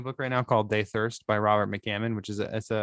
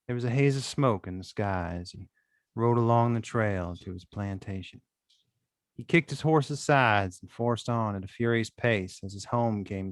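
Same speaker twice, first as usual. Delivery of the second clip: story narration. Acted. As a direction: read the prologue with a hint of Southern. Slight Southern drawl.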